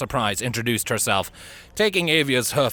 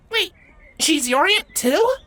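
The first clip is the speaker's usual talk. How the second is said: surprised; 4 dB louder than usual. A narrator's reading. Avia surprised.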